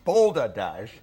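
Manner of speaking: mock indignation. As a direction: play the offended Scot for laughs. Mock outrage on Scotland's behalf.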